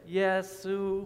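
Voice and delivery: Yesu said in Chinese, high level first tone; Chinese word. Shown as a demonstration. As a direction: say Yesu on one high flat tone. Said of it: "repeat after me".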